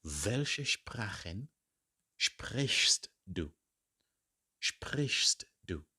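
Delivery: slow Welche Sprachen, then a whispered sprichst du; teacher modelling slowly; slow model phrase. Shown as a demonstration. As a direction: drill slowly, trail into a whisper.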